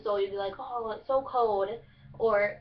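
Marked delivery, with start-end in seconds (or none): 0.6-1.7 slow Kentucky drawl, "cold" as "code"; Kentucky dialect. Shown as a demonstration. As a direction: complain with the L dropped from "cold", Kentucky style. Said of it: "you take out the L".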